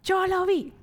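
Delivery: imagined joyful cry; excited exclaim. Pretend. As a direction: cry it out as if you saw the miracle. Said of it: "yo sería como".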